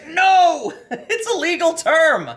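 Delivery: reading the line through a laugh; can't keep a straight face on it; amused disbelief, laughing through the words. Real, not acted. Laughing while reading quoted phrase.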